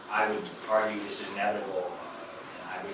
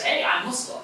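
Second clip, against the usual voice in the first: higher-pitched quoted interjection; captive speaking up; 9 semitones higher than usual. Acted. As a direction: pipe up as the captive, pitched high.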